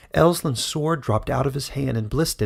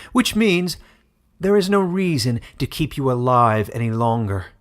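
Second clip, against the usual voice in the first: menacing threat; 5 dB louder than usual. Acted. Villain threatens the bear.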